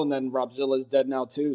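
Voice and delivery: casually factual, as an aside; matter-of-fact. Real, not acted. Telling co-hosts who had channel access, matter-of-fact. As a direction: drop it in matter-of-factly, no drama. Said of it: "just said that so matter-of-factly".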